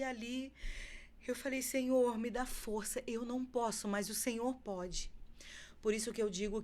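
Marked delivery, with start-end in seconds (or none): 1.6-5.1 higher and louder plea to the Lord; retold prayer, voice raised in need; pleading prayer. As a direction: cry out for strength, slowing at the end. Retold desperate prayer to God.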